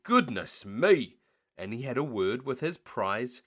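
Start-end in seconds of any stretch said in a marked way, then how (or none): 0.0-1.2 slow, louder goodness me, a touch surprised; a sleepy farmer jolted awake; startled farmer. Acted. Farmer waking to the racket, slow startled exclaim. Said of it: "The farmer woke and said".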